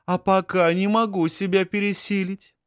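высокий мурлыкающий женский голос; мурлычет кокетливо, выше обычного; purring. Acted. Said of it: "Мурлычет она в ответ". (мурлычет в ответ)

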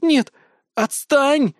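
high, loud panicked shriek; high shrieking refusal. Acted. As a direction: squeal to shake him off. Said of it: "взвизгнула Елена".

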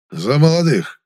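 the eldest toasting the newlyweds. A narrator's reading. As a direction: raise the glass and proclaim. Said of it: "провозгласил тост Герасим".

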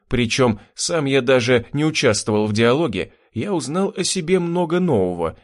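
plain reading voice

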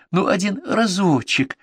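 high, slow coaxing; wheedling plea. A narrator's reading. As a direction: draw it out sweetly. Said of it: "вкрадчиво".

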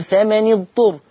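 ثمن اضطر joined as "fama-ni-dturr"; kasra on the nun. Shown as a demonstration. Teacher recalls the Hafs rule, "fama-ni-dturr" for ثمن اضطر. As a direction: put a short i on the nun before اضطر. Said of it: "بنكسر الساكن الأول".

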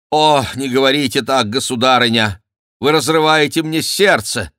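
loud, high, overplayed outcry; hammed-up cry of a broken heart; exclaiming. A narrator's reading. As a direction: protest with feigned heartbreak. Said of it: "воскликнул Франсуа".

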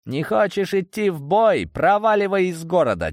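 high, forceful challenge; angry dismissal. A narrator's reading. Leader banishing his reluctant officer, angry. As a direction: throw him out angrily.

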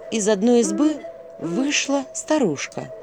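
plain reading voice

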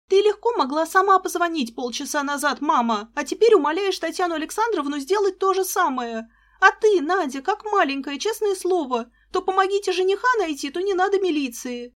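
high, loud, rapid scolding tirade; exasperated scolding. A narrator's reading. Sister scolds her mother and sister, exasperated. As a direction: let the annoyance boil over.

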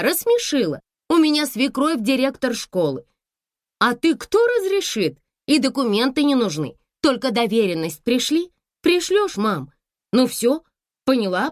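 high, loud rapid pleading; chattering daughter. A narrator's reading. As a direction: rattle on to calm her mother. Daughter wrapping up call. (дочь тараторит в трубку)

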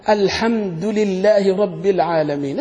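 slow recitation, kasra on لله; recited Quran reading. Shown as a demonstration. Teacher reciting the common reading slowly. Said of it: "هذه قراءة".

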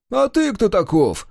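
cross homeowner challenging the visitors; angry challenge. A narrator's reading. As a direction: demand it crossly through the gate. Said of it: "сердито спросил Кудыка".

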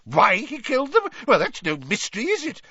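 high, loud, incredulous dismissal; Fudge blustering. A narrator's reading. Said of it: "blustered Fudge".

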